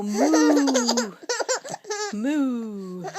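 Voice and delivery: drawn-out mooing like a cow. Shown as a demonstration. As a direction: moo slowly like a cow. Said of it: "He can sound like a cow".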